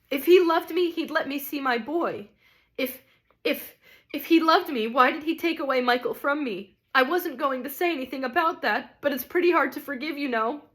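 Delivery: a bitter mother defending her love; lightly voiced resentful mother; grieving mother ghost. A narrator's reading. Ghost pleads about her son.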